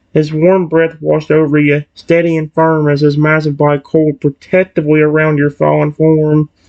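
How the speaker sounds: plain reading voice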